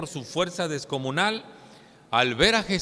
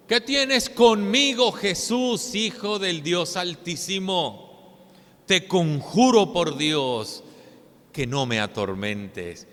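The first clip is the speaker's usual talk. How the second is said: loud, slow, pleading demon cry; clamando a gran voz; 3 semitones higher, 4 dB louder, slower than usual. Acted. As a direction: cry out to Jesus like a tormented man. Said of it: "clamaba a gran voz diciendo". (clamor fuerte y lento del endemoniado)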